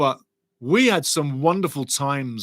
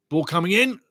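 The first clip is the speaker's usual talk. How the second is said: raised, urgent match commentary; live play-by-play; 4 semitones higher than usual. Acted. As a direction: call every touch as it happens.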